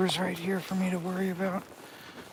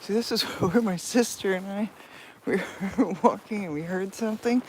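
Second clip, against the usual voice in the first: laughing while talking; 6 dB louder than usual. Real, not acted. Laughing while telling a story.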